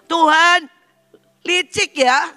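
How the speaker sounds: high, loud mock accusation; protesting to God. Father protests to God, high accusing cry. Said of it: "Jadi dia protes sama Tuhan".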